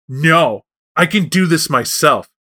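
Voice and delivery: put-on stubborn little-kid worm voice; childlike worm. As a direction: refuse like a very young child insisting on independence. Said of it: "very young Worm, if you can't tell".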